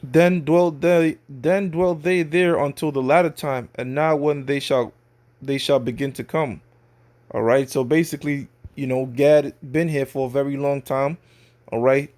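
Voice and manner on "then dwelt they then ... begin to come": slow, solemn reading of verse; scripture reading. Acted. Preacher reading scripture to his audience, slow and solemn. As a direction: read the verse slowly, weighing it.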